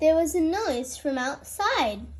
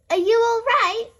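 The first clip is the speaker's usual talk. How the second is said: concerned nurse; 8 semitones higher, 5 dB louder than usual. A narrator's reading. Nurse checks fallen child.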